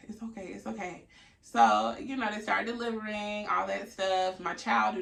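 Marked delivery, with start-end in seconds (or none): 0.1-1.0 quietly soothing, imitating a partner; soft reassurance. Fiance to crying partner, softly reassuring. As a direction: comfort someone in tears, softly. Fiance comforting her in tears.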